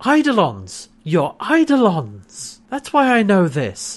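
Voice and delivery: mock sudden realization. Recapper voicing Naranti as the truth dawns, mock revelation. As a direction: draw out the discovery as a character would. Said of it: "looks around and realizes".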